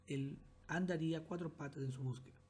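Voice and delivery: phrase ends on "mujer", then a clear pause; pause after mujer. Shown as a demonstration. Teacher pausing after "mujer" to show the comma. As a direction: read up to "mujer" and stop. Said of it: "hacemos esa pausa".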